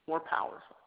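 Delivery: breathed, voiceless whisper; hushed emphasis. Acted. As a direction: drop to a whisper for effect. Building to a hushed climax.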